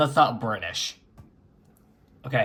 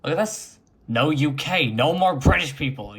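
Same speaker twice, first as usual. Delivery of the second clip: excited cheer; 4 semitones higher, 6 dB louder than usual. Real, not acted. Finally no UK version.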